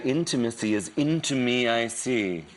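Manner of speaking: lightly voiced serene guru; a hint of a mystic teacher's calm. Quoting his guru voice to friends, lightly serene. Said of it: "Can you call me with the voice?".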